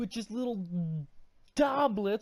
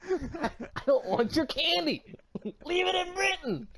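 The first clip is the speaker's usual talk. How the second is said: mock outrage; 6 semitones higher than usual. Mock rant about British candy.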